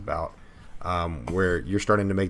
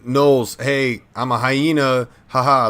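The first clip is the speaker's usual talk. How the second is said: higher, louder hyena guy voice; hype man flair; 4 semitones higher, 5 dB louder than usual. Acted. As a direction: play a cocky laughing hyena. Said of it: "I'm gonna give a little bit of flair to it".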